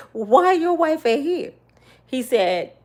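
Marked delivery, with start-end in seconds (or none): 0.1-1.5 calling question. Retold or imitated. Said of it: "And I said".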